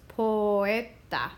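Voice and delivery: poeta slow with o and e in separate syllables; correct split poeta. Shown as a demonstration. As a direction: say poeta as po-e-ta again, carefully. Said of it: "So it's poeta".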